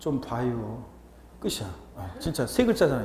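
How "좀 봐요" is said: Chungcheong Korean dialect, much lower pitch. Showing how short a polite phrase is in Chungcheong dialect, Chungcheong dialect. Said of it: "충청도 사투리는 진짜 짧아요".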